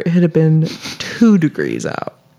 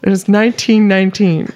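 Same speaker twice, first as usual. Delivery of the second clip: slow, deliberate conspiracy theorist. Pretend. Podcaster revealing numerology to co-hosts, mild conspiracy voice. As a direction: lay out the numbers slowly like a mock conspiracy. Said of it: "slipped into the conspiracy voice".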